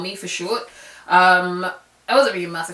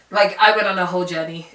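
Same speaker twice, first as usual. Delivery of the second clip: laughing; 4 dB louder, faster than usual. Real, not acted. Laughing at her own year.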